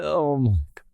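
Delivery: ordinary delivery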